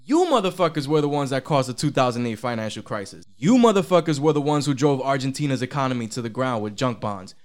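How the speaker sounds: indignant mock rant, punching the accusations; imitating fuming investors. Retail traders accusing Wall Street of hypocrisy, fuming. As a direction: voice the outraged crowd confronting the bankers. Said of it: "fuming. They were like".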